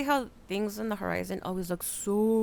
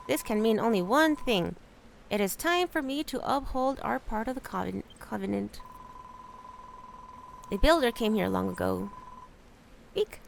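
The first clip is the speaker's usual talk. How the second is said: lightly voiced solemn elder; wise rat elder. Rat Elder recounting the covenant to the builder, solemn. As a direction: tell the old legend gravely.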